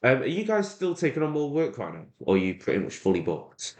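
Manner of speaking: casual sales caller, starting high and easing down; cold-call voice. Shown as a demonstration. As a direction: ask lightly, like a quick phone query. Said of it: "I'm gonna speak exactly how I would on a cold call".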